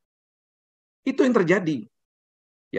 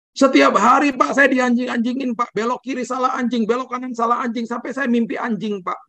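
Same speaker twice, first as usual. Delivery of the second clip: retold complaint; 11 semitones higher than usual. Driver complaining to the pastor, high retold voice. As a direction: pitch up high to act the exchange.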